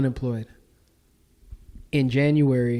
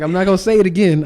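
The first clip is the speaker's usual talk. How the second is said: firm insistence; 7 semitones higher, 7 dB louder, faster than usual. Retold or imitated. Insists firmly.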